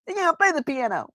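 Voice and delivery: high shrieking cartoon accusation; Simpsons cartoon voice. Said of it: "in The Simpsons".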